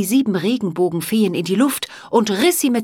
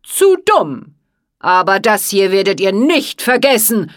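villain's shout; 7 dB louder than usual. A narrator's reading. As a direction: scream the threat at the fairies. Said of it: "schrie er".

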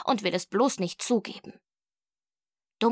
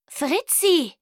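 stern, high teacher's reprimand; sharp name-call, falling at the end; Frau Kralle Kahn; 7 semitones higher, 4 dB louder than usual. A narrator's reading. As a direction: call out like a teacher catching a cheat. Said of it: "Emma klang nun wie Frau Kralle Kahn, wenn die mich beim Schummelversuch erwischt hat".

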